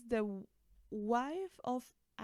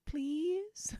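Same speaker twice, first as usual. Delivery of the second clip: louder, higher pleading "please?" with a rising end; begging please; 7 semitones higher, 5 dB louder than usual. Real, not acted. Fan begging the band for more duets, louder and pleading. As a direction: beg the band outright. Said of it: "Like, please?".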